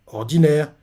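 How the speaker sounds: repeating the word, back at normal level; a confused repeat of someone else's word; puzzled echo. Retold or imitated. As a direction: echo it as if not getting the meaning. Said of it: "Shobunkun ne comprend pas".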